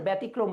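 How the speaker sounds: ব্যতিক্রম as "bæ-tikrom"; habitual open vowel. Shown as a demonstration. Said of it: "ছোট থেকে বলতে বলতে ব্যতিক্রম বলে".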